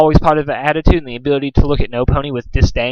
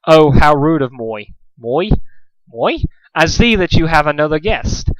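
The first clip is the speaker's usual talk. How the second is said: slow, lightly French waiter voice; polite waiter with French lilt; French accent; 2 semitones higher than usual. Acted.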